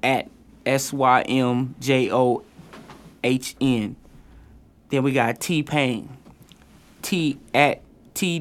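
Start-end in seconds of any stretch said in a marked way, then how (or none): 0.0-3.9 spelled out. Shown as a demonstration. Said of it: "Sim John".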